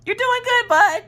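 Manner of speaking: very high-pitched, overdone encouragement; forced encouragement. Retold or imitated. Mom to son failing his eye exam, forced encouragement. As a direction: cheer him on unconvincingly.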